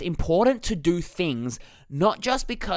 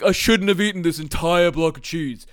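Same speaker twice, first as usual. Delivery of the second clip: lightly voiced guilty groan; a hint of self-pity over the cheese; mock guilty self. Coach imitating himself regretting the cheese, lightly guilty. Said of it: "That's my impression of me".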